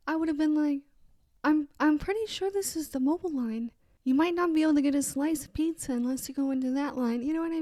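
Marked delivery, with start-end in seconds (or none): 1.4-7.2 nice helpful. Pretend. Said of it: "if she was nicer to me".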